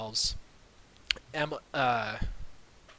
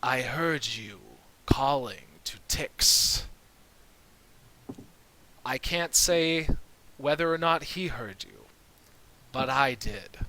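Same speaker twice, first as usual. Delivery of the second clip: put-on old elf voice; 3 dB louder than usual. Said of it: "the squeaking turns into a deeper voice".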